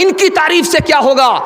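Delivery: preaching shout. Acted. Preacher building to bride's point.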